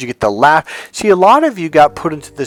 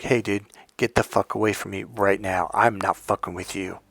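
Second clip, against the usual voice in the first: low, quiet, icy warning; cold dismissal; 4 semitones lower, 7 dB quieter than usual. Acted. Telling off an old schoolmate in a store, low cold dismissal. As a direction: shut them down coldly, low and soft. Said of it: "the coldness. It literally has to be that".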